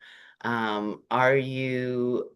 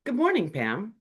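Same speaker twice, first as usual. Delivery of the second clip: flat greeting; 7 semitones higher than usual. Shown as a demonstration. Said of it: "in that tone as well".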